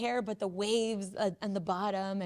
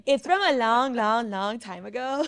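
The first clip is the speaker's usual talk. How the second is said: louder, the long stretched out; 2 semitones higher, 10 dB louder than usual. Real, not acted. Joking the word is ancient, dragging out long.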